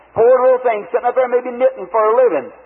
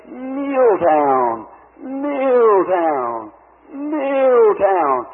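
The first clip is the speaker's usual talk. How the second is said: calling voice in vision; much slower than usual. Retold or imitated. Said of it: "he was saying".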